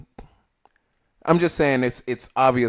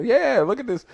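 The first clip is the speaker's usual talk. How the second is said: put-on Korean accent; 11 semitones higher than usual. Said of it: "I didn't wanna do the Korean accent".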